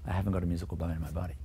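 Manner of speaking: fast, firm mock certainty; imitating conviction. Teacher mimicking a pupil who claims no musical bone, fast and sure. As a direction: parrot the doubter's firm claim. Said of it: "they say it with such conviction".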